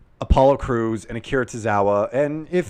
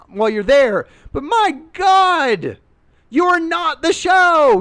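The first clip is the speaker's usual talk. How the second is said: exasperated mock rant; 10 semitones higher than usual. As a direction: scold the audience in a shrill put-on voice. Imagined rant at the audience.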